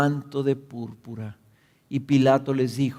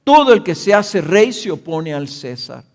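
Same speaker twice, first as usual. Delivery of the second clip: loud, higher threatening shout; crowd shouting; 5 semitones higher, 7 dB louder than usual. A narrator's reading. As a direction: hurl the threat at the governor. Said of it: "gritaron diciendo".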